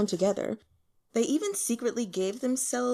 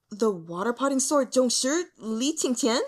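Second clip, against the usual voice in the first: astonished question; 3 semitones higher than usual. Acted. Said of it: "he asked in astonishment".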